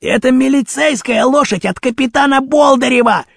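high, insistent outburst; alarmed rebuke. A narrator's reading. Rashpil tells Baton whose horse it is, alarmed rebuke. Boss rebukes henchman in story.

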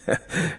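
short, soft acted laugh; amused merchant's brief chuckle; pleased chuckle. A narrator's reading. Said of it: "Он засмеялся довольно и громко".

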